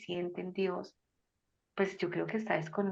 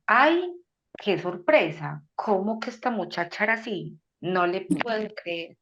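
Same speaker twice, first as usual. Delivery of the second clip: hammed-up shock at what she did; mock surprise; 6 dB louder than usual. Imagined God, amazed at a girl, in mock surprise. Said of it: "nos dice".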